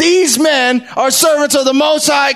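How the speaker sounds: high, screaming call-out, repeated over and over. Describing a woman who kept this up for many days, retelling a scream. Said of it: "She was screaming out".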